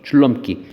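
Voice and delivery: 줄넘기 broken up as jul, leom, kki; standard pronunciation. Shown as a demonstration. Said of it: "라고 발음을 하죠".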